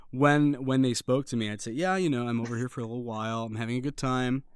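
easygoing American tourist; put-on American accent. Shown as a demonstration. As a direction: chat casually in convincing American. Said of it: "it is pretty convincing".

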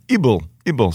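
"ibble" as a separate accented syllable; coached syllable. Shown as a demonstration. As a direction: drill "ibble" on a falling tune. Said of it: "break it down into syllables".

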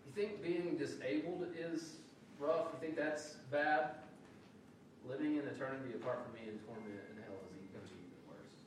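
light, sober warning; a hint of warning Jesus. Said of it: "what he's saying is he's saying".

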